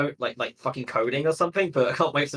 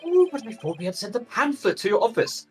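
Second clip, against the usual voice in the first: viking; 9 semitones higher than usual. Acted. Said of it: "what Viking voice do I give him".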